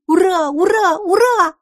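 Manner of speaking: very high, loud repeated hurrahs; squealing celebration; jubilant cheering. A narrator's reading. Pipina cheers with joy.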